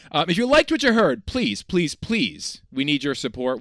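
pushy upbeat sales pitch voice; used car salesman. Acted. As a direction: sell it like a car lot. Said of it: "I've been told I sound like a used car salesman".

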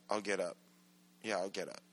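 drowsy trailing off. Retold or imitated. Sleepy voice fading out.

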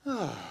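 soft deflating "oh"; acted sigh of melting anger; deflated sigh. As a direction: let the anger escape in a sigh.

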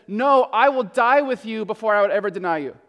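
indignant, forceful denial, mildly acted; lightly acted outraged vow of loyalty; emphatic protest. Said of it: "Peter is apparently horrified and angry".

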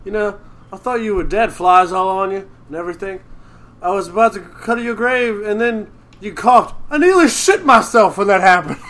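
quoting McShane. Retold or imitated. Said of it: "when he goes".

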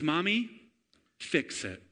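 put-on a toddler pleading quietly; little boy asking. Son asking mom to fix Play-Doh, small pleading voice. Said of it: "he looks to Erica and he says".

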